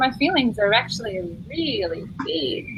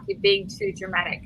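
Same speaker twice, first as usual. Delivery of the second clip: higher, sneering singsong; mocking quote; 9 semitones higher than usual. Mocking people who call her dramatic, higher sneer. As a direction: mimic someone brushing her off. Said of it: "It's that thing, like".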